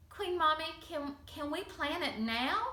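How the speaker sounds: put-on bubbling over with a child's excitement; excited. Sarah begging Queen Mommy to plan the party now, excited. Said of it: "Sarah was so excited".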